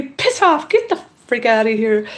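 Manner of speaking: high-pitched mock outburst, easing down; mock angry dismissal. Woman voicing her wish to dismiss him, mock angry. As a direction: pretend to send someone packing. Voices what one wants to say.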